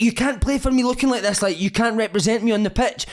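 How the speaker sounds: put-on high, stern Italian accent; Paolo Di Canio. Italian manager threatening his player's diet, Italian accent. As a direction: warn him like a strict Italian boss. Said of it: "He's like".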